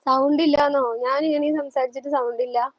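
can't believe they hear nothing; host protesting a viewer's no-sound comment, incredulous; surprised protest. Real, not acted.

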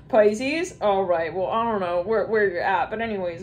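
usual speaking voice

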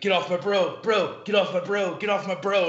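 retold heated shouting; imitated angry bro. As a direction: yell it like a jock defending his buddy. Angry Marine quoted in scuffle.

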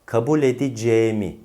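"edeceğimi" contracted to e-di-ce-mi; suffixed spoken form. Shown as a demonstration. Teacher repeats the changed word, "edeceğimi" as e-di-ce-mi. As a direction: swallow the ğ in "edeceğimi", closed e. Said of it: "ceğimi oldu".

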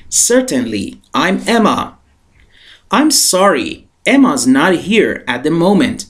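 slow and clear, phrase by phrase for the class; repeat-after-me reading. Shown as a demonstration. Teacher asking students to repeat after her, slow and clear. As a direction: read it slowly so learners can echo you. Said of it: "با من تکرار کن".

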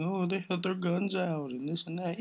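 high-pitched mocking complaint; mock outrage. Mimicking people who made it a big thing, mock outrage.

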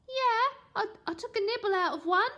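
put-on high, hesitant boy voice; nervous kid. A narrator's reading. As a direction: squirm under questioning. Boy caught lying.

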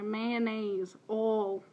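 "mayonnaise" and "oil" in a hick accent; a light hick twang on "mayonnaise, oil". Shown as a demonstration. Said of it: "I'll have this hick accent".

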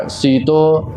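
ਸੀਤੋ with a soft single t; soft pronunciation. Shown as a demonstration. Teacher showing learners the word, soft ਸੀਤੋ. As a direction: say ਸੀਤੋ loosely, long first vowel. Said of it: "ਉਸ ਨੂੰ ਪੋਲਾ ਕਰਕੇ".

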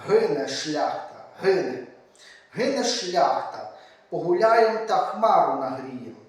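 rhythmic, solemn recital of a poem; poem reading. A narrator's reading. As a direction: declaim the verse like a kobzar telling of old wars. Reads Shevchenko's poem aloud. (урочисте читання поеми)

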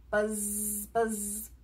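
low, soft, drawn-out buzz; bee buzz. A narrator's reading. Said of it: "He can sound like a bee".

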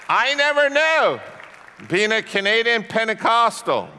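very loud, soaring exclamation; preacher's outcry. Real, not acted. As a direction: cry it out at full force, stretching the words. Sudden preacher's outcry for emphasis.

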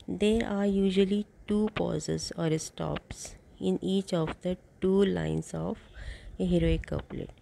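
very slow, even reading for notes; dictating notes to a class; slow dictation. Shown as a demonstration. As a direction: read it out word by word so students can write. Dictates next note.

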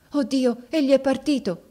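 high, loud anguished cry. Acted. Viola finds her husband gone, crying out high and loud. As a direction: cry out in despair.

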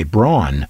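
Braun with an "aw" vowel; Braun said as "brawn". Retold or imitated. Quoting other English speakers, Braun pronounced "brawn". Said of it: "they say".

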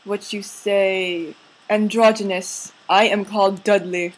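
slow, halting mock English accent; put-on English accent. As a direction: search for words in fake English accent. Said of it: "an English accent".

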